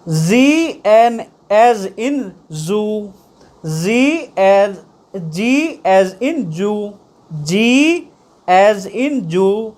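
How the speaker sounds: "as in zoo", "as in Jew" drawn out slowly; slow pronunciation demo. Shown as a demonstration. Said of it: "ऐसे समझ रहे हैं हमें".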